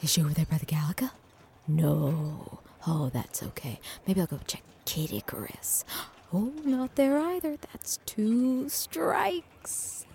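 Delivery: whispered wildlife commentary; hushed nature documentary. Pretend. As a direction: whisper like a hiding narrator. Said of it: "in his natural habitat".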